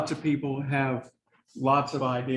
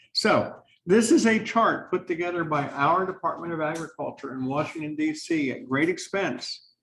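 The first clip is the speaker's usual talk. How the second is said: sarcastic; 3 semitones higher than usual. Real, not acted. Lecturer showing students a government chart, sarcastic. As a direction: present it with dry sarcasm. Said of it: "That's sarcasm".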